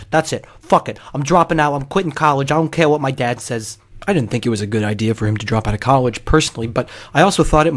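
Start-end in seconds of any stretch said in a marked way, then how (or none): 0.1-3.8 retold angry rant. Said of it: "and he goes".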